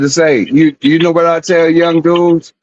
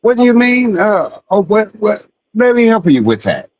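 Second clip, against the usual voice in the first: mock polite service voice, pitched up; sarcastically helpful; 5 semitones higher than usual. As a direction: play the overly helpful clerk, tongue in cheek. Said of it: "put your customer service voice on".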